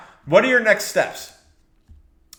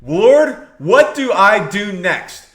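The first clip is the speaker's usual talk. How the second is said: earnest prayer; much slower than usual. Acted. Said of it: "That's the key".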